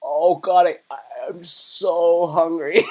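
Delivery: drawn-out, slow, moaning so hungry; milk the hunger for the camera; hammed-up hunger moan. Streamer moaning about hunger to viewers, hammed-up and slow. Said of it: "I'm gonna be like".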